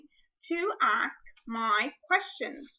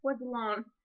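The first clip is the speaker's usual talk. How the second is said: imitating a child. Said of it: "they could say".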